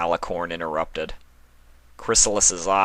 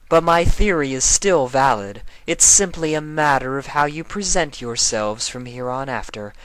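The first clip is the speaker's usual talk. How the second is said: higher, louder regal voice, condescending; lofty Nightmare Moon; 7 semitones higher, 4 dB louder than usual. Acted. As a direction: lecture her like a queen to a subject. Nightmare Moon lectures the queen.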